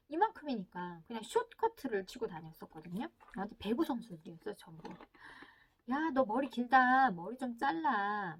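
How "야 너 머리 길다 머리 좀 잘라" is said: slow, drawn-out nagging order; lightly acted parent pressing a child; pushy parent. Parent tells child to get haircut, mildly pushy. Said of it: "이 말이 강요하는 말이기".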